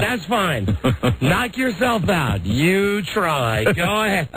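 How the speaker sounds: slow, mocking go-ahead, drawn out at the end; sarcastic dare. Dad daring his teenage son to fix the TV, sarcastic. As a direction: wave him off with a sneer, letting it swell.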